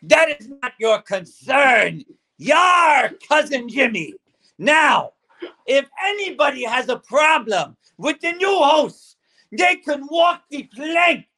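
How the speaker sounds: blustering pirate captain. Acted. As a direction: threaten like a stage pirate. Pirate host addressing crew.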